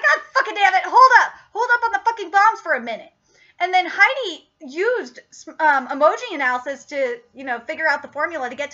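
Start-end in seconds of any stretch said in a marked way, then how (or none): 0.0-3.1 punchy, slightly raised exasperated command; mock exasperation. Retelling Garrison calling off the bombs, mock exasperation. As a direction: imitate a boss calling a sudden halt.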